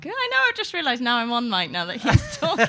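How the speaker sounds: lightly voiced cheeky puppet; a hint of a ventriloquist dummy; Monk puppet voice. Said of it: "how are you, Monk?".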